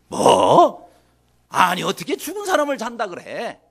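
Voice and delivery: loud scoffing "what?", then incredulous question; acted-out scornful incredulity; mocking disbelief. Mourners laughing at Jesus' words, mocking disbelief. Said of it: "하면서 비웃었다 그랬어요".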